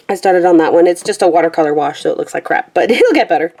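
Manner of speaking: panting between words; talking while short of breath. Real, not acted. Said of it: "I'm sorry if I'm panting at you".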